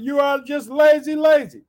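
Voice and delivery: loud, slightly high scolding; shouted rebuke. A narrator's reading. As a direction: call it out like an accusing ruler. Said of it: "But the Pharaoh shouted".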